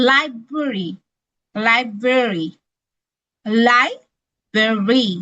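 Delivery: "library" said slowly three times, the last one stretched out; careful pronunciation demo. Shown as a demonstration. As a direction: drill "library" slowly, syllable by syllable. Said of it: "প্রনাউন্সিয়েশনটা দিয়ে দিয়েছি".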